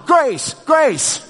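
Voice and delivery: high, lightly voiced toddler copying grandpa's call, with a laugh; imitating grandson. Toddler grandson echoing his grandpa's call, high and laughing. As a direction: mimic a small child's echo of the call. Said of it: "this little guy is going".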